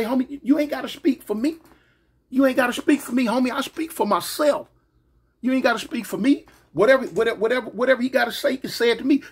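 retold heated pushback at a friend; heated telling off. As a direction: push back hard, high and firm.

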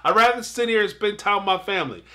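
a hint of a man waving off the call; lightly mimicking a dismissive husband; mock husband voice. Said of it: "basically what he was telling her".

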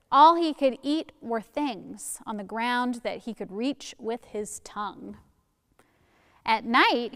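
put-on measured storytelling for young listeners; story narration. A narrator's reading. Reading a folktale to children at church, story narration. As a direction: read it out as a picture-book tale.

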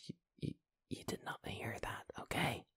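hushed urgent whisper. Acted. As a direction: whisper it so nobody hears. Hushing someone mid-take.

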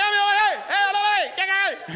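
high, loud mock Miami Spanglish; Miami talk. Comic imitating how people in Miami talk, high and loud. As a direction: fire off hey hey like a Miami local. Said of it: "That's how they talk".

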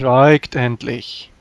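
stern command. Acted. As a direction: cut him off firmly. Player silences prisoner sternly.

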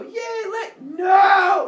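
high, shouted cheer turning to a shouted protest; silly crowd cheer. Acted. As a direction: cheer blindly, then cry out no.

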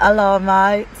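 jokey Aussie greeting; Australian accent. Pretend. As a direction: put on a playful Australian accent. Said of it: "that was my Australian accent".

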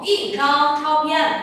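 Y chang chao phiền, slow and syllable by syllable; Y chang chao phiền read slowly with each tone shown; slow model reading. Shown as a demonstration. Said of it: "biến điệu thành thanh bốn đúng không".

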